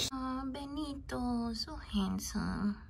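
hushed, slow doting murmur; soft coo. Real, not acted. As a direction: breathe it softly to the pet. Cooing at pet softly.

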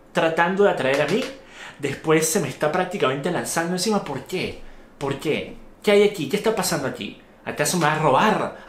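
wary and increasingly alarmed, talking yourself through the danger; a normal person suddenly smelling a trap; suspicious inner voice. Retold or imitated. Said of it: "tú dirías por un segundo".

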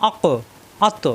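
আক and আত with thick, bouncing final letters; heavy qalqala. Shown as a demonstration. Teacher to viewers, আক and আত with a heavy qalqala bounce. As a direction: echo the ক and the ত heavy and full. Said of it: "এই জন্য মোটা হবে".

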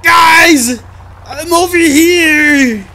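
loud shouts to distant teammates; calling out. Real, not acted. Lost player shouting to his teammates, loud calls for help. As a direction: yell to be found.

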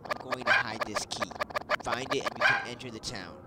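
lightly voiced dog, loud and declarative; a touch of tough-dog character, loud; game dog's voice. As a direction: announce it as the boss dog. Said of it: "That's how he sounds".

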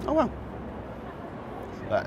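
ordinary talk, nothing marked

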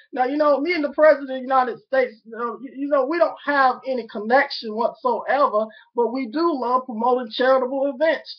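lightly hammed-up Southern accent. Addressing the President in a Southern accent. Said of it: "Here go the Southern accent".

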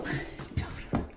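quiet, breathy chuckle; soft laugh breaking into the explanation; short laugh. Real, not acted. Vlogger amused by his animals mid-explanation, quiet laugh.

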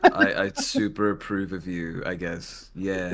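low, slow, gruff stone statue voice; grinding stone statue. Acted. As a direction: grind it out like a rumbling stone golem. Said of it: "say it in the stone voice now".

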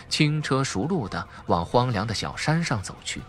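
ordinary delivery

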